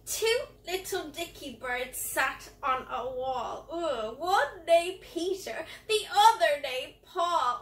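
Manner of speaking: mock-disgusted rhyme with groans of ugh. Shown as a demonstration. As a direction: recite it as if grossed out. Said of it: "disgusted voice".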